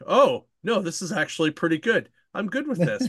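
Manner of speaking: lifted, lightly surprised retelling; pleasantly surprised. Retold or imitated. Retelling changed opinion of book.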